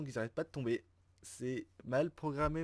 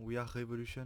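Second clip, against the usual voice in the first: English title in a thick French accent; bad English accent. Real, not acted. Gamer recalling a game title for viewers, self-mocked French-accented English. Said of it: "avec mon super accent anglais".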